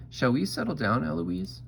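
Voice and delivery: high, lilting copy rising at the end; Eloise mimicking. A narrator's reading. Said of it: "And I say".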